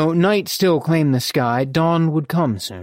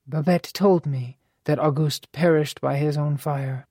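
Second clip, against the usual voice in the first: lightly voiced mother, hushed dismay. Mother reacts with regret in narration.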